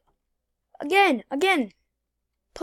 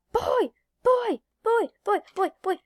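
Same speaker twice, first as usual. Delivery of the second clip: taunt; 8 semitones higher than usual. Real, not acted. Taunting while driving away.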